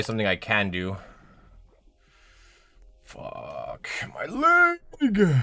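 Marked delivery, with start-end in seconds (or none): 3.0-5.4 slow, drawn-out whisper in pain. Real, not acted. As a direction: breathe it out like it hurts to talk. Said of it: "I'm gonna cry today".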